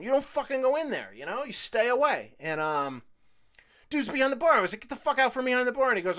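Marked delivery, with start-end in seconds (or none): 4.8-5.9 angry yell. Retold or imitated. Ordering customer out again.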